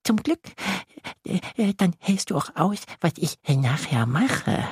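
high, eager little creature voice; a tiny monster thrilled to have a friend; little lake monster. Acted. Tiny lake monster greets Yassin, high and delighted.

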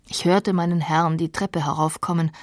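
ordinary talk

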